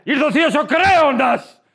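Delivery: hammed-up tragic announcement; tragic actor. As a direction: declaim like a school play of Sophocles. Ancient tragedy line mocked.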